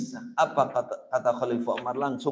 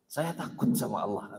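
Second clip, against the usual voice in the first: hushed fearful reply; 6 semitones lower, 9 dB quieter than usual. Retold or imitated. Friend's fearful answer, retold.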